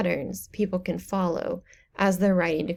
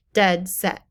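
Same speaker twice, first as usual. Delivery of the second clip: "Dead set" with equal weight on DEAD and SET; both syllables stressed; 3 dB louder than usual. Shown as a demonstration. Teacher illustrates a spondee, both words stressed. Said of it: "You say both of those loudly".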